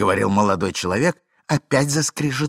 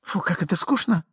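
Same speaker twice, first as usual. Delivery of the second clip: higher, peevish woman's voice; lightly voiced disdainful wife; bored lady; 9 semitones higher than usual. A narrator's reading. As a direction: cut him off, bored. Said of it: "перебила дама".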